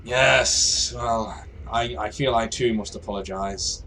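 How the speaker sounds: mildly apologetic; a restrained, halting apology. Acted. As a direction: offer a slightly hesitant apology. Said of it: "a really apologetic tone".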